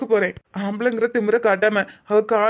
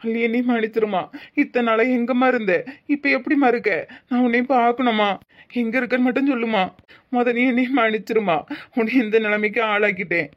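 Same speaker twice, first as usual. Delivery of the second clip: a man near tears asking his wife to forgive him; tearful pleading; 2 semitones higher than usual. Acted. Uncle on the phone with Alli, pleading tearfully. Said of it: "அழாதீங்க மாமா".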